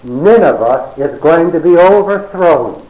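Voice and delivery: slow, drawn-out mock preaching, rising in pitch; smirking preacher. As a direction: preach doom with a self-satisfied smirk. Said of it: "smirk upon his face, he preaches the gospel".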